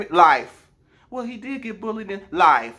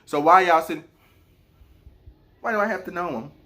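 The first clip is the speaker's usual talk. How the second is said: mimicking a dismissive man; 2 semitones lower than usual. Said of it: "he out here talking about some".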